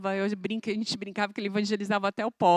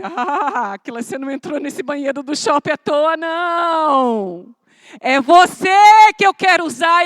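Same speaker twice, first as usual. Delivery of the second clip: loud, raised voice of God; God calling out; 6 semitones higher, 16 dB louder than usual. Acted. God calls Aquila in the mall bathroom, loud rebuke.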